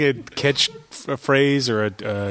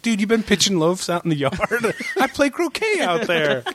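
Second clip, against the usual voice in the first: high, indignant movie-line impression; hammed-up protest, pitched way up; Jack Black; 7 semitones higher than usual. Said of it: "He's like".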